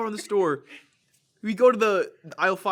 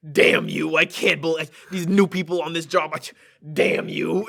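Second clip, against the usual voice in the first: imitating an old man's grumbling curse; mildly hammed-up angry muttered rant; retold mad cursing; 5 dB louder than usual. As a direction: curse the new staff as a cross customer. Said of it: "he gets mad".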